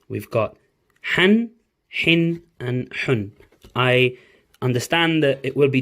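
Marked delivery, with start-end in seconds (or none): 1.1-3.3 Han with a sharp throaty H; teacher demonstrating the sharp Ha sound; Arabic letter Ha drill. Shown as a demonstration. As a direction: push the H from the throat in Han, Hin, Hun. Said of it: "this is how they sound".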